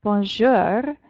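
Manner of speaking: bonjour with a throaty French R, drawn out; French pronunciation. Shown as a demonstration. Teacher models bonjour for students, French pronunciation. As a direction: draw out "bonjour", rolling the R in the throat. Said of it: "So practice saying bonjour".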